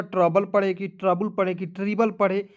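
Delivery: ट्रबल as "trabəl", then "trabul", then ट्रिबल as "tribəl"; vary one vowel each time from ट्रबल to ट्रिबल; contrasting readings. Shown as a demonstration. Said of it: "बहुत बड़ा confusion है".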